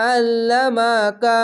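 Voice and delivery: আল্লামাকা with a heavy, squeezed ain; throaty ain in আল্লামাকা; throat-pressed ain. Shown as a demonstration. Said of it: "গলা চিপে পড়বেন".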